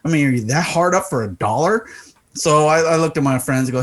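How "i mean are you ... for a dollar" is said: higher, incredulous rant; retold irritation, swooping up on the questions; pissed off. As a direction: act out fed-up disbelief at a shameless demand. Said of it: "Now I'm getting pissed off".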